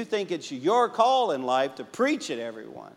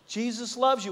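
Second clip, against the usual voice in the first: put-on Cajun accent; 8 semitones higher than usual. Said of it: "with that Cajun accent".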